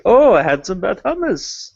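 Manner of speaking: lightly voiced New York Jewish accent; a hint of an old New York Jewish kvetch. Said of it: "typical New York Jew accent".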